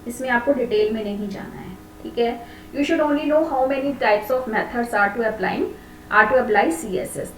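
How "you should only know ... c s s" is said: slow dictation. Shown as a demonstration. Teacher dictating a note.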